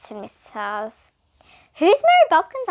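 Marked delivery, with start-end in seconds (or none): 1.7-2.7 puzzled. A narrator's reading. Miss Jules puzzled question.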